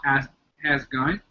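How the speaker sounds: hesitant stab at an Australian accent. Shown as a demonstration. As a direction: try out a cheesy Aussie accent. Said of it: "stereotypical Australian accent".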